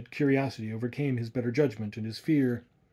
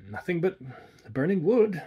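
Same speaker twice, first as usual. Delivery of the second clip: firmly; 6 semitones higher, 3 dB louder than usual. A narrator's reading. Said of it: "he replied firmly".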